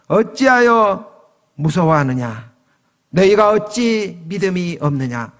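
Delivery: stern rebuke. Acted. Jesus asks disciples why they fear, mildly rebuking. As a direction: scold them in a measured, mildly stern preacher's voice. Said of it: "이렇게 책망을 했습니다".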